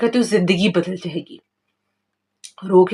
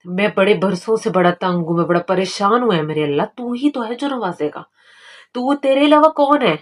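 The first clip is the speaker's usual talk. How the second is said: tearful pleading. Shown as a demonstration. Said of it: "रोना है, गिड़गिड़ाना है".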